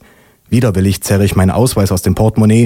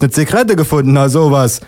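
higher, feigned astonishment; amused mock surprise; 5 semitones higher than usual. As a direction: policeman pretending a lucky find. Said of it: "lacht der Polizist".

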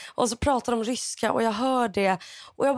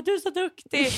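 higher, lightly voiced proud mother; retold motherly praise, pitched up; 7 semitones higher than usual. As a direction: praise like to a small child.

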